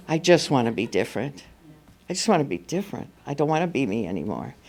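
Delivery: soft, small inner voice, lilting up; quiet pleading. Retold or imitated. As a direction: plead softly, as if only to yourself. Small inner voice, opposite the nagging one.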